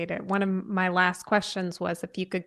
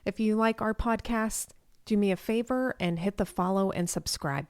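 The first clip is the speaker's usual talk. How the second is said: evenly paced sign-off read; measured announcer-style outro; podcast outro read. Real, not acted. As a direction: read the scripted thanks and sponsor credit to listeners.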